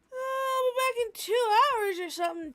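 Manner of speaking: a quick, lightly done Aussie impression; failed Australian accent that came out British; mock Australian accent. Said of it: "that was more British than Australian".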